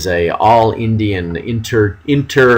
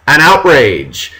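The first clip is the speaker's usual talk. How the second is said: mock outrage; 6 semitones higher, 5 dB louder than usual. Teacher mocks war fever.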